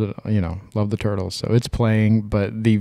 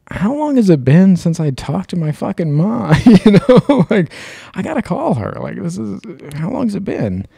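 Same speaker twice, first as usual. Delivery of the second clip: retold panic; 10 semitones higher, 5 dB louder than usual. Panicked realization in dream retold.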